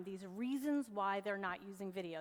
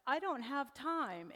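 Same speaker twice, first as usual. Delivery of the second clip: imitating a complainer, higher and drawn out; mock excuse; 4 semitones higher, 4 dB louder, slower than usual. Speaker mimics business owners claiming they are too busy, mock excuse. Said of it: "when I hear business owners go".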